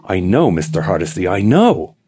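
put-on like a child bursting with a secret; breathless excitement. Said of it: "his voice was breathless with excitement".

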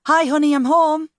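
high, loud call home to a friend. A narrator's reading. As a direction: call it out cheerily through the house. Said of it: "she called out".

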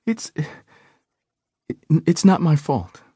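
halting, absent-minded protest; distracted. A narrator's reading. Woman muttering to herself in the exam room, distracted. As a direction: say it half elsewhere, stumbling. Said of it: "the woman said distractedly".

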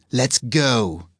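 lightly growled, grudging command. A narrator's reading. Demon giving in to her captor, mild growl. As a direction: growl it with a touch of menace. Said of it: "she says with a growl".

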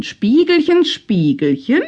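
calling out. A narrator's reading. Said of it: "rief ihn Pinneis aus einem Dachtürmchen".

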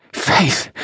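whispered, panting name; panicky breathless. A narrator's reading. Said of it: "between her panicky, raspy breaths".

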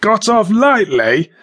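high, loud disbelieving echo; incredulous. Acted. Dead man echoing the corpse, incredulous. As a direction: throw his words back in disbelief.

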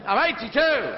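high, loud proclamation of age; old lady shouting. Acted. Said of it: "where they start shouting".

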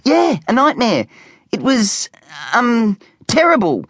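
put-on hesitant, unconvincing kid voice; stuttering. A narrator's reading. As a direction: fumble for a lie. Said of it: "stuttered Specky".

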